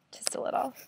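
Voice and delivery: small, soft near-whisper; barely voiced, coy understatement; hushed aside. Real, not acted. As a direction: drop to a tiny modest murmur. Modest aside after admitting pride.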